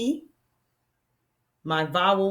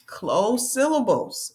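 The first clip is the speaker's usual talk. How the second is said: slow; 3 semitones higher, slower than usual. Shown as a demonstration. Names term while writing it.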